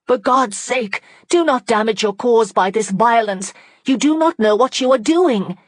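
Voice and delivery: high, loud urgent pleading; desperate plea. Acted. Margaret begging the rioters to stop, high and urgent. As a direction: implore the mob to stop.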